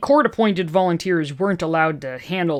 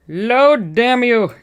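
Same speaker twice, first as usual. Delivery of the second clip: frustrated; 6 semitones higher, 5 dB louder, much slower than usual. Real, not acted.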